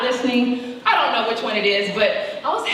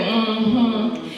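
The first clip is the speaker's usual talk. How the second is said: mother's mm-hmm. Retold or imitated. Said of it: "in that mother voice".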